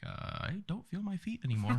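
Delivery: high, slow mock-helpless whine; losing it. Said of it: "Just losing it".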